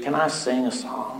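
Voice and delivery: mock-slurred drunk speech. Speaker retells what a drunk man said, imitating his slurred speech. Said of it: "in his slurred speech".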